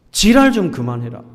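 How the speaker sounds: mock angry scold, half acted; retelling a mother's angry outburst at her naughty child. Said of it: "화를 내면서 이렇게 말했습니다".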